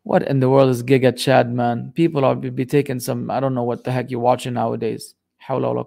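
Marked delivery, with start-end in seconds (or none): 0.0-1.9 exasperated disbelief. Real, not acted. Baffled by a viewer's question.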